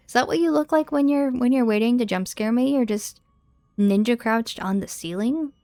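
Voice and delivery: shocked, loud and high; startled outburst at a jump scare; scared horror game streamer. Real, not acted. Startled by enemy on ceiling.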